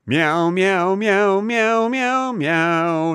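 playful cat meows in a row; meowing. Acted. Host meowing at Canadian cat lovers, mock cat. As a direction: meow like a cat for the listeners.

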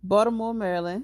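Baltimore said as Baltamore, loud and proud; Baltimore accent. Shown as a demonstration. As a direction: native Baltimore accent, T softened. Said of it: "With my Baltimore accent".

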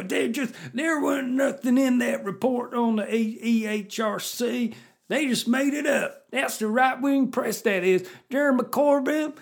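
put-on high, loud American redneck accent. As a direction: play a rowdy American redneck. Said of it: "put a redneck accent on".

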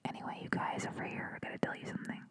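breathy secret whisper, barely there. Real, not acted. Comedian confiding in listeners, hushed whisper. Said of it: "I'm, like, whispering now".

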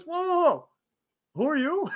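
high, loud mock call to stop; calling after someone leaving, playing it up; imitating Shane halting him. Retelling Shane McMahon stopping him at the sink, a loud mock call. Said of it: "He goes".

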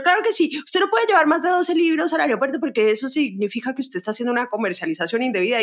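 lightly voiced officer laying down the rule; stern official. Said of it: "Y el señor".

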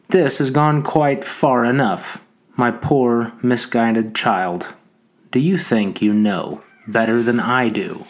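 a hint of a stern schoolmaster, slow and condescending; mildly voiced scolding schoolmaster. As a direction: lecture him like a disappointed teacher, drawing it out. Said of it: "spoke in the voice of a schoolmaster".

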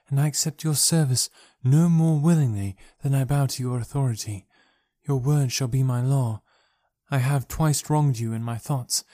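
a princess puzzling over her rescuer, gently; Dejah Thoris voice. Acted. Princess answering John Carter, lightly voiced and earnest.

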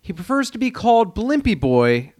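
anchorman correction read; news reporter voice. Pretend. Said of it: "you said that like a news reporter".

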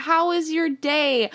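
toned-down, drawn-out pet question; mom's question retold. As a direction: lightly imitate a mom asking a cat. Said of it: "she asked my cat".

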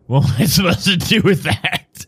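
high-pitched, put-on vampire voice; decrepit old vampire. Old vampire questions Marcus about the tooth, high voice. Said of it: "decrepit looking vampire with a walking stick".

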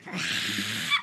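high, breath-only mock scream; imitated scream. Mother alone in her car, imitated airy scream. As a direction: scream on air without the volume. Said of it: "like, scream, fucking scream in my car".

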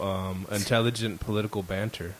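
dry sarcastic praise. Acted. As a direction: say it with heavy sarcasm. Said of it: "He's being so sarcastic".

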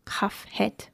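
Chaf het whispered to himself; whispered letters. Shown as a demonstration. Explaining Hebrew letters, whispered under the breath. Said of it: "Chaf or chet?".

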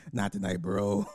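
chuckling through the words; laughing. Real, not acted. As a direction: laugh as you say it. Laughs while repeating.

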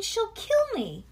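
high, loud, drawn-out wail of protest; yelling child. A narrator's reading. Bean begs parents not to leave her with sister, high yell. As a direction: wail it like a dramatic kid. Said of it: "yelled Bean".

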